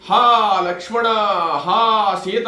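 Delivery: calling out a mock anguished cry; retold desperate call for help; loud cry. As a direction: cry out the names like a dying man's shout. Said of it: "గట్టిగా అరిచాడు".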